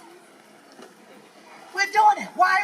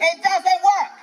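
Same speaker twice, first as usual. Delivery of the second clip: pushed louder, hammering the word work; louder insistence; 3 semitones higher, 4 dB louder than usual. Real, not acted. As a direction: drive it home with force. Repeating the point to crowd.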